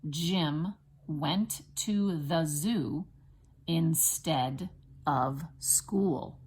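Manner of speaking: slow, separated words with clear stresses; teacher's deliberate word-by-word reading; spelling dictation. Shown as a demonstration. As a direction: dictate it slowly for first graders to write. Teacher dictates for children to write.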